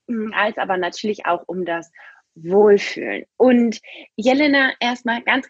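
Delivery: poor sauna mic recording; muffled, low-quality mic sound; low bitrate. Real, not acted. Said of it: "Ich bin vielleicht manchmal nicht so ganz so gut zu verstehen".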